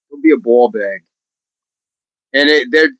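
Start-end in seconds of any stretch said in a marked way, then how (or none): 0.1-1.0 high-pitched British "Don't be a ball bag"; a silly jump up into mock British; mock British accent. Shown as a demonstration. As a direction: fling it out in a hammed-up British accent. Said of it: "Do it again".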